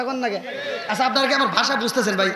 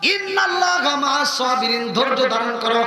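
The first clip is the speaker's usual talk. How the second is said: waz preaching; 2 semitones higher than usual. Real, not acted. Preacher telling the crowd of the Prophet and Bilal, impassioned chanting. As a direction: preach at full force, stretching line endings into melody. Preaches a story at full force.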